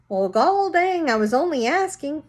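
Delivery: a hint of a huffy grandpa; lightly voiced old man protesting; indignant old man. Gramps protests in the car.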